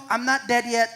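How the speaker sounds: a wry, amused repeat, a touch firmer; mock-indignant, half-laughing; joking disbelief repeated. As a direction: press the joke home with a smile. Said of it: "I said".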